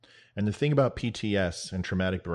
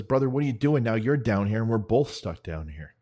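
raised, louder voice of mock disbelief; retold dismay; 3 semitones higher, 4 dB louder than usual. Trapped soldier to comrade who jumped in, retold dismay. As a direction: question the rescuer in acted dismay.

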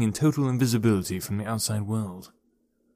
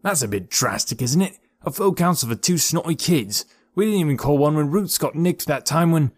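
scoffing tree man; 6 semitones higher than usual. Acted. Beech scoffs at the council.

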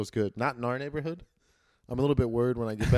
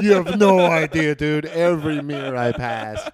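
excited; 3 semitones higher, 6 dB louder than usual. Real, not acted. Gushing about admiring himself.

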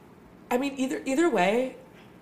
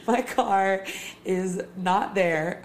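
laughing disbelief; much slower than usual. Retold or imitated. Car gone, laughing disbelief.

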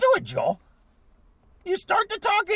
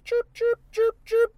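imitated bird chirps; 4 semitones higher, slower than usual. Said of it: "The birds are chirping".

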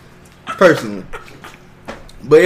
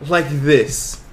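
God's voice; 4 semitones higher, 4 dB louder than usual. Retold or imitated. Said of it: "God came and was like".

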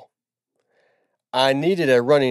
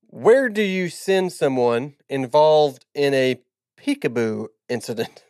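halting slow read. Real, not acted. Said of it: "Did you learn to read at Emory and Henry".

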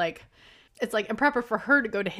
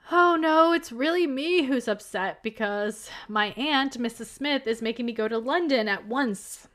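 mock forced cheer; 4 semitones higher than usual. Willoughby explains his leaving to the family, mock forced cheer. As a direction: lightly imitate putting on a cheerful face. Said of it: "like, a cheerful face".

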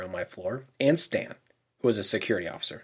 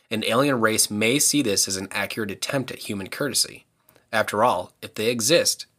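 alien voice. Pretend. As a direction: read it like a calm alien. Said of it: "Was that a good alien voice?".

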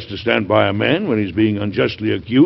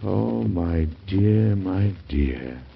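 tender relief; 3 semitones lower, much slower than usual. Acted. Husband sees his ill wife.

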